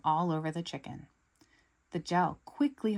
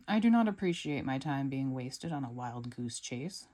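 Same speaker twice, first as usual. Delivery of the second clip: lower, stern scolding voice; 4 semitones lower than usual. Acted. Silas scolding Gru for wasting his time, stern. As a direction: scold him like a stuffy boss. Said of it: "scolds Silas".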